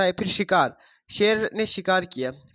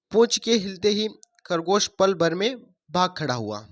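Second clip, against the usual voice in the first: put-on reading a story to children, a bit louder; 3 dB louder than usual. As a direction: tell the fable to the class. Teacher reads story to class. (बच्चों को कहानी सुनाते हुए)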